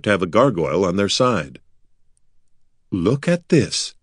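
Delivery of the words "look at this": higher-pitched, drawn-out call; sudden exclamation. A narrator's reading. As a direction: call attention to a find. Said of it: "Corin said suddenly".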